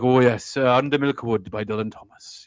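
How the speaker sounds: rumbling, controlled Welsh actor voice; Richard Burton. Retold or imitated. Showing the controlled Welsh accent of a famous actor, rumbling impression. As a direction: imitate a grand, controlled Celtic actor. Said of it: "you got someone like Richard Burton talking like".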